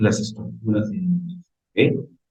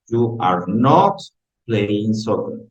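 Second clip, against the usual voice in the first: slow model reading; much slower than usual. Shown as a demonstration. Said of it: "ojo, yo leo en inglés".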